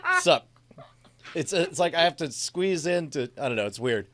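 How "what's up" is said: high, loud laughing shout; loud bro shout. Retold or imitated. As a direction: bark it like a pumped-up bro. Escalating mock aggressive greeting.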